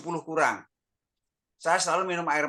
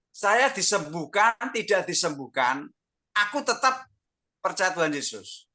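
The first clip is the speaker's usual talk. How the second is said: raised-pitch, emphatic vow; resolute declaration; 3 semitones higher than usual. Retold or imitated. Husband telling his wife he keeps believing, resolute declaration.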